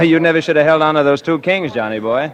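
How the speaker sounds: chuckling, loud and gloating; laughing at the loser across the card table; laughing tease. Acted. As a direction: rub the loss in with a laugh. Teasing winner at card game.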